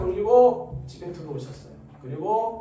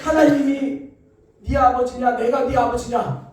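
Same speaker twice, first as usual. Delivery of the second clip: furious father, raised voice; angry drunk father; 3 semitones higher, 7 dB louder than usual. Retold or imitated. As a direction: hammer the question at the son. Drunk father interrogates son.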